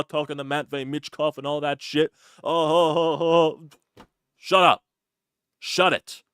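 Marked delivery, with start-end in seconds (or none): 2.4-4.0 mock wail. Mock crying outburst.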